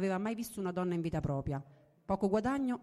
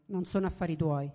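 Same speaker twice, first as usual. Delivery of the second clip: growled reply; 3 dB louder than usual. Acted. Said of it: "le ringhiò contro".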